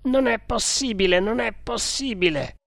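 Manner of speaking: high-pitched cry of disbelief; desperate denial. A narrator's reading. Desperate denial after the shouted accusation.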